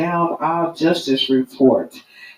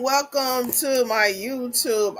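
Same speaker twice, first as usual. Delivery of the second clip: booming sing song welcome; 7 semitones higher than usual. Acted. Host opening greeting on live.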